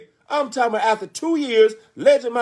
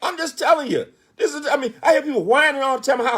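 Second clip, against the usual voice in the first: laughing through tears; 6 semitones higher than usual. Real, not acted. Emotional aside after excitement.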